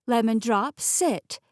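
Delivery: firm command to a pet, pitch jumping on the last word; scolding a dog. Acted. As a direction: order the dog to behave.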